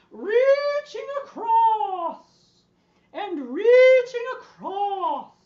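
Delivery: drawn-out high, loud sing-song; silly swooping call, way up high; Julia Child. Acted. Teacher leading a stretch to the other side, high sing-song. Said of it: "Be as silly as possible".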